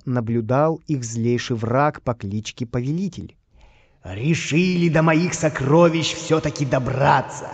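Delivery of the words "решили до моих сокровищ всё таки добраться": angry villain. Acted. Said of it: "злился Повелитель".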